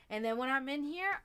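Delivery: hushed whisper. Real, not acted. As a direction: whisper so she can rest. Someone resting in the room.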